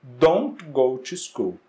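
slow, deliberate don't go to school, each word spaced out; slow model sentence. Shown as a demonstration. Teacher modeling the negative sentence for students, slow and deliberate. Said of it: "Então, na negativa".

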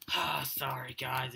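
slow breathy whisper; whispered apology. Real, not acted. Apologising to viewers for cheating, a slow whisper. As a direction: confess under your breath.

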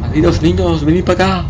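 high put-on creepy voice; creepy child-luring voice. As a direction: lure the kids in, sing-song. Voicing creepy game character.

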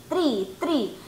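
tree with a hard t, no th; wrong tree sound. Shown as a demonstration. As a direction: mimic the mistake tree. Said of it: "three, no tree". (pronunciación incorrecta: tree)

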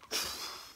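acted-out big intake of breath; imitated pre-push gasp; sharp gasp.

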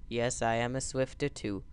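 soft secret whisper; whispered aside. Acted. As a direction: whisper it like a confession. Confiding aside to viewer.

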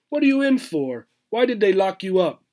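high, far-off streetwise squirrel voice; tough squirrel. Acted. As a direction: play the squirrel like a jailhouse con.

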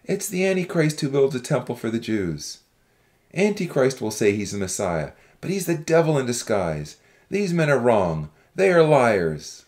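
rallying accusers. A narrator's reading. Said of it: "Others rallied around the young man".

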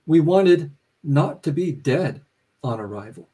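measured public reading with weighted pauses between items; literary reading. A narrator's reading. Author reading the novel to an audience, measured and deliberate. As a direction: read it out deliberately, each phrase set apart.

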